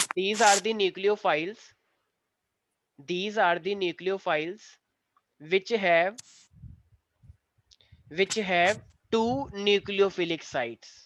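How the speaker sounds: very slow, repeated dictation with long pauses. Shown as a demonstration. Teacher repeating for a student who asked, slow dictation. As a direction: dictate phrase by phrase, drawing words out. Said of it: "sir, फिर से बोल दो".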